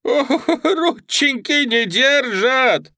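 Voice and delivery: very high, loud, slow hammed-up wail; clowning whine. A narrator's reading. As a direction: play the helpless cripple for laughs. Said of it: "вскрикнул, привычно ломаясь".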